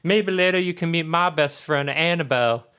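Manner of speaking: put-on sweetly sociable girl's voice; friendly Charlotte. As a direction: gush like a daughter about her best friend. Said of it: "so she's like".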